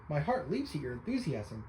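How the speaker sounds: words stretched by a yawn. Real, not acted. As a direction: say it mid-yawn, drowsy. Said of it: "I'm just yawning today".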